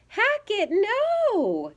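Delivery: put-on high, urgent child's cry of alarm; yelling. A narrator's reading. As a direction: call out high to stop a little brother. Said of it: "yelled Ivy".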